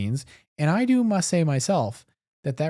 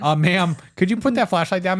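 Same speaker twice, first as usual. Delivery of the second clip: raised, mock-stern request; mock official reprimand; 4 semitones higher, 4 dB louder than usual. Cast member to guest with a flashlight, mock reprimand. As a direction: politely tell off a guest, playfully. Acting staff scolding a flashlight user.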